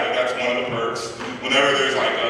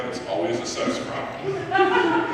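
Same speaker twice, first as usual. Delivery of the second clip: squeaky voice; 4 dB quieter, much slower than usual. Acted. Punchline in a put-on voice.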